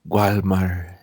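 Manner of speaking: mock Spanish-accented "Gualmar". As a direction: say "Gualmar" the way a Spanish speaker would. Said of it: "the way you would say it with your Spanish accent".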